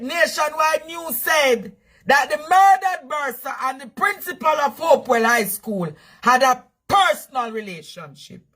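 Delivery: re-read the bulletin word by word; news read. Shown as a demonstration. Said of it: "Let me read it again".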